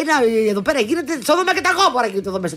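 high, fast outraged scolding; scandalized mother. Retold or imitated. Host mum scandalized at kids kissing under the tablecloth.

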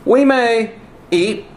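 preacher mimics Eve belittling God's gift; Eve downplaying. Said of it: "she minimizes their privileges and says".

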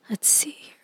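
losing your voice, barely getting words out; voice giving out. Real, not acted. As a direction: voice fading into a breathy whisper. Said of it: "And I'm losing my voice".

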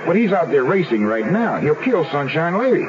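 worried he'll lose the horse; alarmed. Acted. Alarmed about the horse race.

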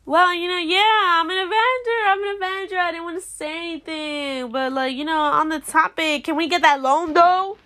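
lightly hammed-up coy Sam; playful imitation of someone being smooth; smooth humblebrag imitation. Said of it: "did a really smooth job".

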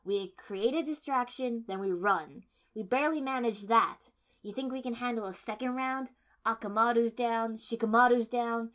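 loud, insistent pleading to leave; forceful arguing. A narrator's reading. Kiba urging the team to run, loud and insistent. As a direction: drive every reason home loudly.

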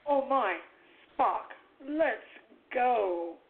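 halting starship-captain impression; William Shatner. Co-host answers the Shatner comma joke, halting dramatically. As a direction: break the line up with dramatic pauses. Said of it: "I prefer the Shatner comma".

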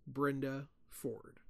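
soft and slow, hushed; whispered. A narrator's reading. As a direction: let the name drift out slowly, barely audible. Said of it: "the whisper came".

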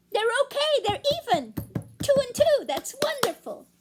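high, bright-eyed delight; excited. Acted. Narrator thrilled the game is tied, high. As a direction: celebrate the tie breathlessly. Cheering the tie.

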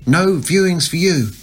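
shrieking. A narrator's reading. Crazy Amy jeering at the mob at the door, high loud shriek. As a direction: jeer at them like a madwoman. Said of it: "shrieked the crazy Amy".

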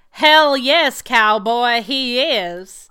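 hammed-up cowboy holler; mock cheer. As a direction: yell it like a rodeo fan. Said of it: "And we're like".

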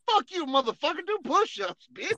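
mocking a friend who pulled rank; mocking taunt. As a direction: taunt him like it's a joke. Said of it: "I was like".

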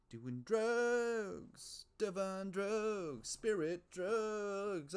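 high, loud, drawn-out wailing addict; spirit drug addict. Acted. Comic riff as a spirit addict begging for drugs, high wailing. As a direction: stretch the words out high like a comic junkie.

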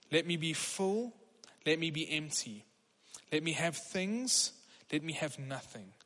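measured, solemn prayer read aloud; a pastor reading a prayer to the church. Shown as a demonstration. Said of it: "I want you to hear these words as, as I read them".

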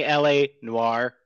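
"L A Noire" said slow, noir like "nwar"; "L A Noire" Americanized, slow; gringo pronunciation. Shown as a demonstration. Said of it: "I'll just say it like a gringo".

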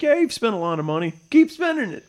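high, loud, fast pitch voice; mock executive voice. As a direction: squeak it like a greedy exec. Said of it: "they're like".

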